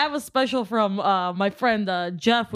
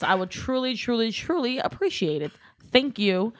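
mock podcast host; 2 semitones higher, slower than usual. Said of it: "pretending that this is my podcast now".

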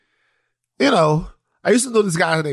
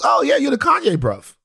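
imitating Daniel, British; 12 semitones higher than usual. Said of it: "And Daniel goes".

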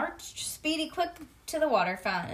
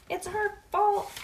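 loud, higher, slow blaming shout; 11 semitones higher, 4 dB louder, slower than usual. Acted. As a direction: shout the blame at once. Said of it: "we shouted together".

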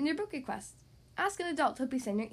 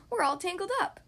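higher mild call for help; 6 semitones higher than usual. A narrator's reading. Tangled friends calling to Squirrel, calling out. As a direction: call it out in distress. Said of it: "her friends called".

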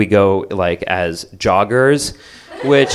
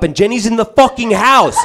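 higher, laughing disbelief; disbelieving laugh; 12 semitones higher, 4 dB louder than usual. Retold or imitated. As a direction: blurt it out half laughing. Shocked at Jenny inside house.

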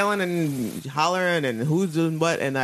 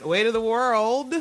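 dramatic intoning; 6 semitones higher, slower than usual. Acted. Echoes title dramatically.

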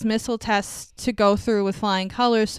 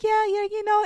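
mock placating; 11 semitones higher than usual. She placates him out of fear.

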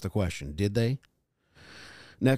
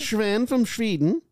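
high, slow Swedish caricature; mock Swedish accent; 9 semitones higher, slower than usual. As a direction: drawl it in fake Swedish.

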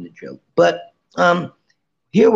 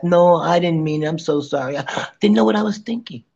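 apologetic empath; 3 semitones higher than usual. Pretend. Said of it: "Then you go back to empath".

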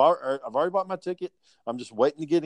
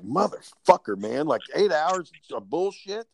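exasperated outburst; 6 semitones higher than usual. Retold or imitated. Caseworker exploding at the mother's confession, exasperated higher outburst. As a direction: vent it like eight hours just got wasted. Exasperated reaction to kids lying.

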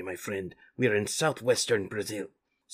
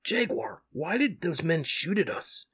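higher, lightly voiced young Mikey; curious Mikey; 6 semitones higher than usual. Mikey asks Jaguar, in a lightly higher voice. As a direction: ask it with a hint of a kid's worry. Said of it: "asked Mikey".

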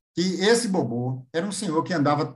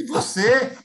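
high mock question; 11 semitones higher, 5 dB louder, much slower than usual. Friend quoted asking Caetano.

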